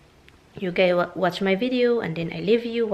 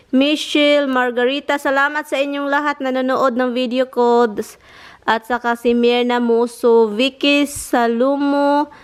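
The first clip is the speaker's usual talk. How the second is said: shout-outs; 5 semitones higher, 4 dB louder than usual. Real, not acted.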